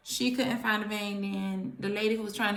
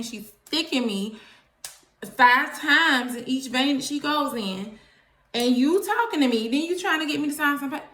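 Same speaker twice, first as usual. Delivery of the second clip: snapping at nurse; 3 semitones higher, 4 dB louder than usual. Retold or imitated. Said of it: "I snap".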